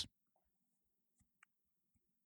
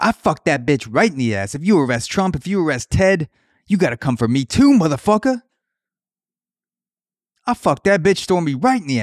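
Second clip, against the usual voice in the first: climbing higher and louder to a yelled motherfucker; Ron Paul impression; 5 semitones higher, 4 dB louder than usual. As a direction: work himself into a frenzy. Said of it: "I don't even know if that's how he sounds".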